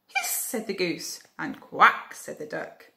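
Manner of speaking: lively storybook reading; reading to children. A narrator's reading. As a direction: read it like a bedtime story. Reading picture book aloud.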